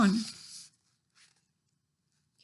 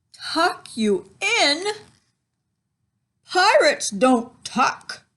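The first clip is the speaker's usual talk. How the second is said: slow, high pirate bellow; 6 semitones higher, 4 dB louder, much slower than usual. A narrator's reading. Pirate captain bellows at the boy. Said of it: "he bellowed".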